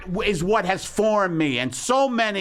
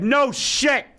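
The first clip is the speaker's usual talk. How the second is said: sarcastic retort; 7 semitones higher than usual. Retold or imitated. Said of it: "I said".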